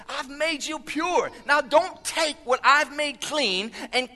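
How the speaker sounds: building from firm to high, loud preaching; impassioned exhortation. Acted. Jesus pleads with believers not to tear each other down, impassioned.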